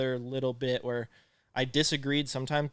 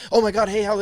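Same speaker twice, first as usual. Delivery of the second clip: high, loud, gushing mock greeting; hammed-up squeaky phone excitement; little-girl phone voice; 8 semitones higher, 10 dB louder than usual. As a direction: mimic a caller whose voice jumps octaves up. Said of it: "you sound like a little girl".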